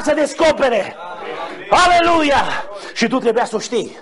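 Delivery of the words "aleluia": high, exultant cry; praise shout. Real, not acted. Preacher praising after the revealed mystery, exultant shout. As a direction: burst out in praise to the hall.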